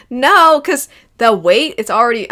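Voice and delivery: raising her voice without meaning to; getting loud. Real, not acted. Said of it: "I'm getting so loud".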